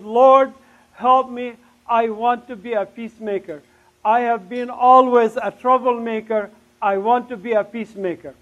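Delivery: excited plea. Retold or imitated. New believer begging the Lord for help, excited. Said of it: "I was so excited".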